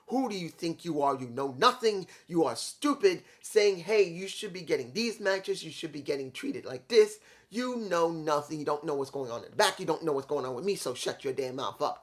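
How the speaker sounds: rattled off in a single breath without pausing; one-breath rant at fans on social media; all in one breath. Shown as a demonstration. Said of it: "I said that all in one breath".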